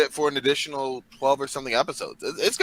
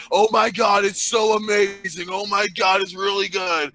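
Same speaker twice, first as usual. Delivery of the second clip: mock gushing fan, slow and raised; gushing fan imitation; 4 semitones higher, slower than usual. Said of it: "People say".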